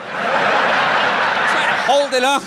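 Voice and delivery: slow strained breathy effort; straining whisper. Pretend. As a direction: act out holding a heavy head up. Head drooping like a baby.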